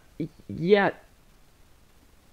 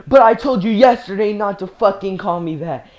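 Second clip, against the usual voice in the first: louder retold teacher outburst; angry yelling; 3 semitones higher, 6 dB louder than usual. Teacher reprimanding the girl over his name, mock angry yell. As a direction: imitate a teacher who has lost patience. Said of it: "yell at me or anything".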